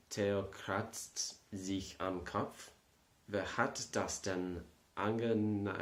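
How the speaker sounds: slow careful German reading; reading German aloud. Shown as a demonstration. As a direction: sound out each German word slowly. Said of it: "I got the German accent down".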